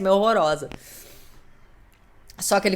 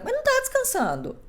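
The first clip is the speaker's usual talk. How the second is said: high, falling teasing retort; mocking retort. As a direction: tease back in a high voice. Retruca imitando voz aguda. (retruca aguda e debochada)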